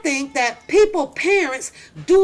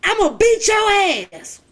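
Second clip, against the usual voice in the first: higher, louder dad threat; dad threatening the kid, higher and louder; mock angry dad; 7 semitones higher, 4 dB louder than usual. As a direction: threaten like a fed-up father. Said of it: "My dad was like that".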